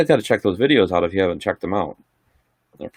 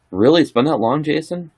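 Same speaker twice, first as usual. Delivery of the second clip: higher, rising, mildly amazed; surprised; 9 semitones higher than usual. Real, not acted. Streamer reacts to viewer Jason's comment, surprised. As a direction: lift each question up in real surprise.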